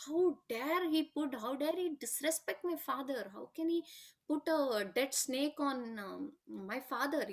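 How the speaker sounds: mild mock outrage, key words drawn out slowly; retold indignant anger. Son protesting the insult to his father, retold with indignant anger. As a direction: retell an affronted son's anger, stretching the opening words. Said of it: "is very angry with".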